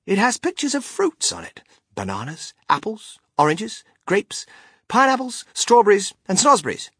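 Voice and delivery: high showman listing his wonders; Willy Wonka, enthusiastic. Acted. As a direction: build the list with mounting relish.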